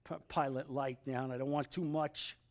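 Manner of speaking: low, hushed voice turning it down; soft, low, shrinking back; acted timid plea. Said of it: "going like this".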